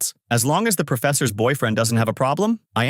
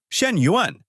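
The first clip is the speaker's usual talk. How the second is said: surprised; 7 semitones higher than usual. A narrator's reading. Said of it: "also says in surprise".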